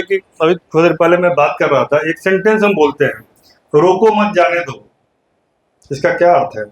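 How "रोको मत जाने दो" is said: "रोको मत" together, pause, then "जाने दो"; pause after मत. Shown as a demonstration. Teacher quoting the example sentence to students, pause after मत. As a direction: join "रोको मत", break before "जाने दो". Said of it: "के बाद कॉमा लगाते हैं".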